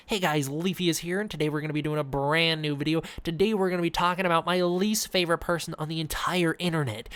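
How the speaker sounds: lightly voiced YouTuber opening rant; Leafy impression. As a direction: hype up the intro like a commentary channel host. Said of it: "is that how he started?".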